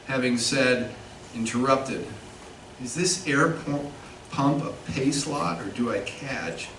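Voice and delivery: measured literary reading, phrase by phrase; poetry reading. Acted. Poet reads a filling station poem to an audience, measured poetry reading. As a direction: read the poem deliberately, pausing at line breaks.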